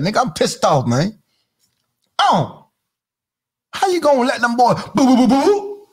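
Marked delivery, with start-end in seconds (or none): 3.7-5.9 mock boo sounds. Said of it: "Make sound effects on you".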